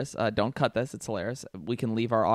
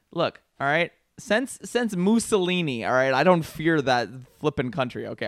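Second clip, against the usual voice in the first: mock rant; 2 semitones higher, 4 dB louder than usual. Teasing his partner, a mild mock rant about Italy. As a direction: bluster it, slightly louder. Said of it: "anti-Italian rant".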